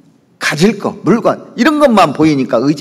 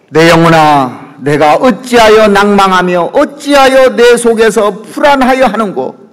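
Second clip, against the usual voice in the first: declamatory scripture reading; 7 semitones higher, 8 dB louder than usual. Acted. Preacher reads the psalm to the congregation, declamatory and loud. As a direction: proclaim the verse with raised, sustained voice.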